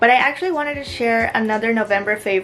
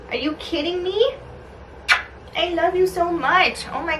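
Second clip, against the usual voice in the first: fond mock scolding in a higher voice; pet talk; 6 semitones higher than usual. Real, not acted. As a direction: coo a telling-off to your beloved pet. Fondly scolding her cat to its face.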